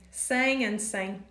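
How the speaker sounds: 'sang and sang' said the same twice, slowly; identical words. Shown as a demonstration. Teacher showing that two words sound identical. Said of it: "they are the same".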